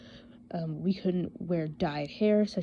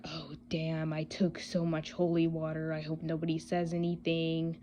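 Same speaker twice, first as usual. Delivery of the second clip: worried inner thought; 5 dB quieter than usual. Retold or imitated. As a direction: say it softly, as if to yourself. Recalls a worried thought to herself.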